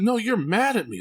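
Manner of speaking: be the stubborn little son; insistent child. Retold or imitated. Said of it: "Like, he was adamant".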